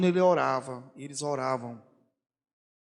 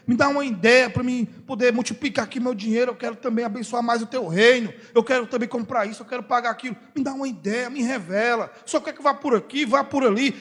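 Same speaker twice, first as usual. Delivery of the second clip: candid prayer; 6 semitones higher than usual. Retold or imitated. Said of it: "Eu chego e digo".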